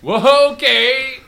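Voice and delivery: high, loud yelped reaction; startled recoil. Acted. Podcaster told of a face stabbing, high startled yelp. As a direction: jump back vocally, pitch shooting up.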